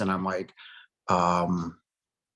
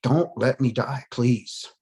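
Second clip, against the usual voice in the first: pleading; 3 semitones higher, much slower than usual. Retold or imitated. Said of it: "I said".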